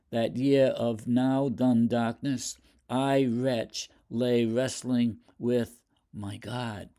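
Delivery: slow, weighty reading of the sonnet; poem recitation. Acted. Lecturer reading Hopkins's sonnet to the class, slow solemn recitation. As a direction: declaim each phrase, letting it land.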